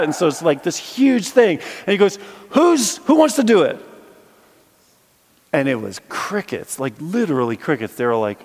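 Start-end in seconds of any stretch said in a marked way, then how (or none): 2.5-3.8 high, loud ringmaster call; calling for a volunteer. Retold or imitated. Walker calling the crowd for a volunteer, high loud call.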